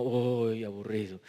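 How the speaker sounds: low, soft, weary sigh of boredom; mock-bored, sinking low and quiet; bored groan. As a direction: groan it like the dullest thing imaginable. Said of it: "era medio como".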